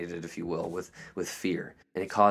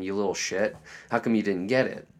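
mock condemning rebuke. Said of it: "not one of condemnation".

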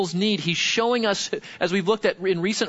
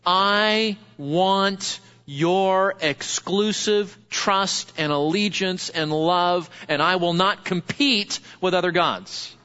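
slow, solemn divine appeal, lightly voiced; voice of God; slower than usual. Preacher voicing God asking his people for exclusive love, slow and solemn. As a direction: speak slowly as God demanding loyalty. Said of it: "God is saying".

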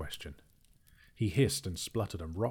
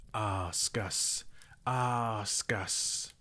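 Gollum voice; 2 semitones higher, much slower than usual. A narrator's reading. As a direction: beg like a lightly voiced Gollum. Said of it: "said Gollum".

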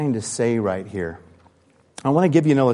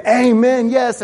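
eager amen; 9 semitones higher, 4 dB louder, slower than usual. Acted. Jews cheering Paul on.

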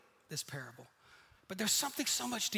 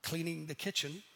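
humble brag; 6 semitones lower, 6 dB quieter than usual. Retold or imitated. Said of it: "You're like".

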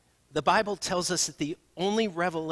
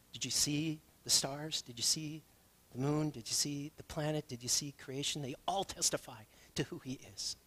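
softening to a whisper; hushed wonder; 6 dB quieter than usual. Real, not acted. Pastor asking about the stars, fading to a whisper. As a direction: draw them in with quiet awe. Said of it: "unvoiced whisper".

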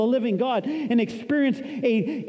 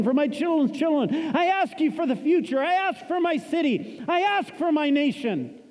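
raised, fervent intercession; earnest prayer; 3 semitones higher than usual. Acted. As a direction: pray it out over the church. Leads congregation in prayer.

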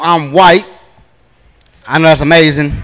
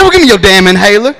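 desperate dad; 6 semitones higher than usual. Retold or imitated. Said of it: "I said".

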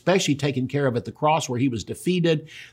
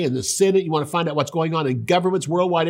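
ordinary talk

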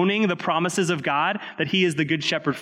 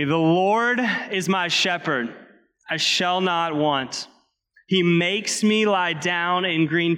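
slow, deliberate congregational reading, a touch louder; slower than usual. Real, not acted. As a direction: read it slowly and aloud together, owning each line. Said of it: "We're gonna read it loud, we're gonna read it slowly".

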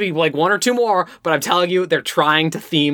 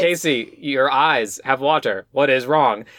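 robotic delivery; 3 semitones lower, slower than usual. Retold or imitated. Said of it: "in the most robotic Tyra Banks".

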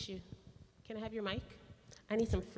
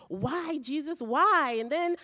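higher, pleading cries of why at Jesus; retold angry pleading; 5 semitones higher than usual. Preacher retelling his angry prayer to Jesus, higher and frustrated. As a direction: raise the pitch and press him, frustrated. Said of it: "And then I got angry and I'm like".

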